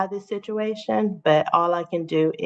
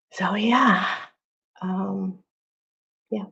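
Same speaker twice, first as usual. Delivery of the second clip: whispered; slower than usual. Real, not acted. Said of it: "emotional whisper".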